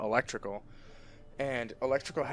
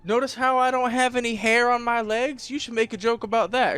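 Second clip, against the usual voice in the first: higher, louder upbeat bro voice; mock friendly bro; 11 semitones higher, 7 dB louder than usual. Teaser making up with the teased kid, bright and loud. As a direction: play the cheerful pal smoothing it over. Acting friendly after teasing.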